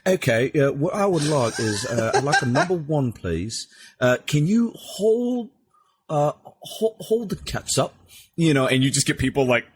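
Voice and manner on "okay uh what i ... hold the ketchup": high, comic character voice; put-on character voice. Prankster ordering at a drive-through, high put-on voice. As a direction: pitch it way up for a silly customer character. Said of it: "start busting out a voice".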